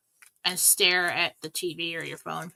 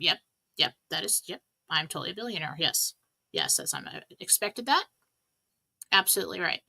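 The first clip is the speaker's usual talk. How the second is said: deadpan; 2 semitones lower, 3 dB quieter than usual. Pretend. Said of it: "No emotion whatsoever".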